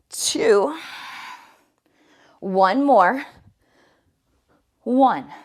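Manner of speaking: loud, pushing coach count; loud encouragement. Real, not acted. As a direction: push them through the last reps. Coach pushing the final reps.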